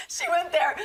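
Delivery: breathy stage whisper. Real, not acted. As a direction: whisper it to the room. Whispered aside after joke.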